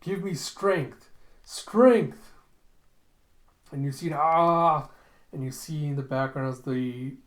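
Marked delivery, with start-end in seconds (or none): 0.0-2.3 high, loud dramatic cry building to the last word; acted scream. Brain's mouth demands vengeance, acted screaming. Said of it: "the mouth screams out". 4.1-4.9 long, loud open "ah"; mock scream. Brain screaming in the retold scene, mock long scream. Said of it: "the mouth is just screaming".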